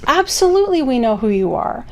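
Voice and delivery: warm, emphatic reassurance; affirming. Retold or imitated. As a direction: say it like a friendly affirmation. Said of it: "It was kind of an affirmation".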